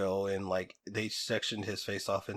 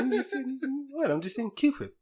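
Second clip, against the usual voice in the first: higher, playful, with a heavy aspirated H in "Cool whip"; Stewie's breathy H. Retold or imitated. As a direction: innocently lean on the H of "whip". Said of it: "Why are you saying it like that?".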